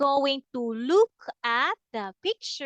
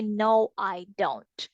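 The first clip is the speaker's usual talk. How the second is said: slow, deliberate no, I don't; slow model answer; 5 semitones lower, slower than usual. Shown as a demonstration. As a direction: spell it out slowly for a child. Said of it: "you say".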